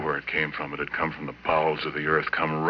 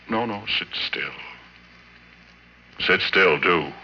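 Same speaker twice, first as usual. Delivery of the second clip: rising threat; 4 semitones higher, 5 dB louder than usual. Acted. Threatening captive with gun.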